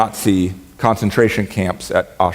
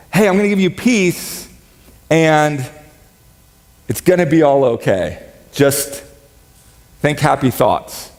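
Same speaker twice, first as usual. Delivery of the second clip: breezy reassurance; 3 semitones higher than usual. Retold or imitated. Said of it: "He says".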